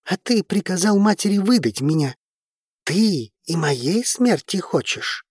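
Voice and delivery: put-on a hurt boy throwing accusations; teenage boy. A narrator's reading.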